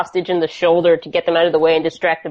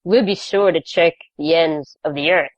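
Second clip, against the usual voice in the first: mock Caruso one-liner. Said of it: "Caruso moment where he puts on his sunglasses".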